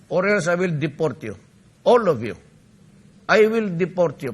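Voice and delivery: firm, loud warning; stern warning to foreign lenders; mock threat. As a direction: bark out the deportation threat. Threatening foreigners, rising loudness.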